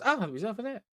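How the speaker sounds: high, loud character voice; Geofried. Acted. Game master voices a character hearing the bing, high excited exclamation. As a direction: pitch it way up, calling out in surprise. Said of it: "So Geofried, like, goes".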